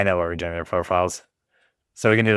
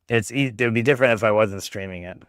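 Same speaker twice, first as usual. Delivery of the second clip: chewing while talking. Real, not acted. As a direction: mouth full of food. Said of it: "Sorry, I'm trying to eat again".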